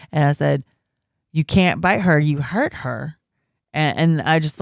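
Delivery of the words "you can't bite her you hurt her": firm retold scolding, raised on the first words; firm parent. Mother scolds toddler for biting, firm. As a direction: imitate a parent laying down the rule. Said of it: "I was just real firm".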